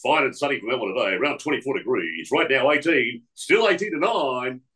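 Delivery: lightly voiced DJ patter; brisk hint of a breakfast jock; radio jock time call. Imitating the DJ reading time calls, mild jock voice. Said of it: "Harrow would do this thing".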